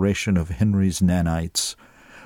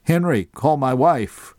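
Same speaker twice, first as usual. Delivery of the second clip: shouted order; 5 semitones higher than usual. A narrator's reading. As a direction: call out urgently. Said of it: "Vic shouted".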